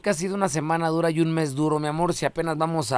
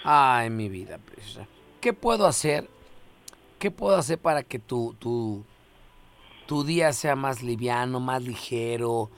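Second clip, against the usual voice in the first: mock seductive; 5 semitones lower than usual. Host sweet-talks caller. (voz seductora de broma, más suave)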